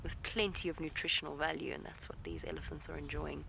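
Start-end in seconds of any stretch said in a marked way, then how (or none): 1.7-3.4 hushed whisper so the elephants stay calm. Real, not acted. Guide whispering to viewers beside grazing elephants. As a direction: breathe the words, no voice.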